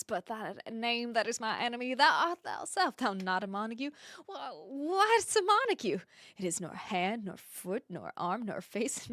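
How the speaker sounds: imperfect, lightly performed Southern accent. Shown as a demonstration. Streamer demonstrating the balcony speech for viewers, loose Southern accent. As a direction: recite Juliet in an attempted Southern accent. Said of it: "if I could do a better accent".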